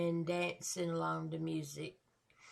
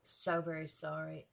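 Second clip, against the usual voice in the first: sincere sympathy; 2 semitones lower, 5 dB quieter than usual. Real, not acted. Listener apologizing to the rapper for what he went through, sincere sympathy. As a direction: speak softly in heartfelt sympathy.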